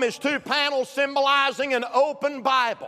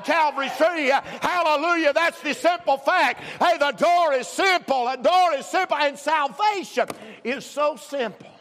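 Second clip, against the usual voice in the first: full-force preaching; 2 semitones higher than usual. Real, not acted. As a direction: proclaim it to the whole congregation with punched phrases.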